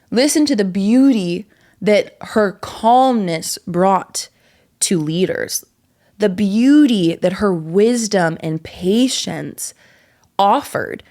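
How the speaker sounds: slow, savouring each word; calm, unhurried reverence. Real, not acted.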